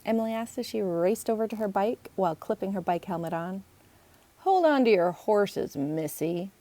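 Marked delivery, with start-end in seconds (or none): 4.4-6.5 mom's saying. Retold or imitated. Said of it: "Logan's mom would say that".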